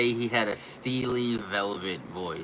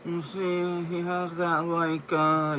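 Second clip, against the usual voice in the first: higher-pitched British accent try-out; British accent attempt; 7 semitones higher, slower than usual. Shown as a demonstration. Testing the actor's accent.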